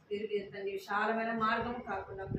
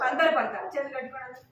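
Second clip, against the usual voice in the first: louder firm command to the class; firm call; 3 semitones higher, 5 dB louder, faster than usual. Real, not acted. Teacher ordering the children to recite together. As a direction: call everyone to attention. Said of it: "teacher commanding class to recite".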